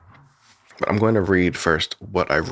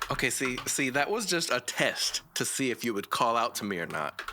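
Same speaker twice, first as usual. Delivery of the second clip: higher, much softer breathy delivery; soft breathy Lynn voice raw; 5 semitones higher, 9 dB quieter than usual. Shown as a demonstration. Creator playing his raw recording of Lynn before effects, soft and breathy. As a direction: breathe the line softly and high. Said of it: "you can listen".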